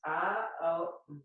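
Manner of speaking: "A, O, M" sounded as three separate parts; syllables shown separately. Shown as a demonstration. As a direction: sound out "A, O, M" one part at a time. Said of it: "It has three syllables".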